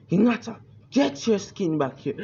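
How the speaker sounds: a high called-out yell after her; shouting out. Retold or imitated. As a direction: call her back from a distance, up high. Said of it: "was shouting out like".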